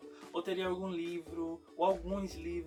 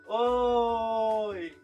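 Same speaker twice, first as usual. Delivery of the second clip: bright high call of hello; excited greeting; 3 semitones higher, 9 dB louder than usual. Acted. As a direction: greet the kids with a big cheerful hello. Host greets guest to children.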